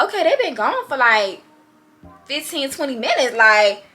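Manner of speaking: loud annoyed question. Retold or imitated. Wondering where couple went.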